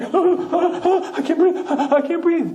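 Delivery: high, gasping comic panic with a laugh; breathless Shmuel. Acted. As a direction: gasp like the air is gone. Shmuel overwhelmed at seventy.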